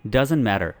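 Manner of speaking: American flapped T in "matter", close to a D; American accent. Shown as a demonstration. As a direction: say "matter" like "madder", American style. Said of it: "American accent में कुछ इस तरह".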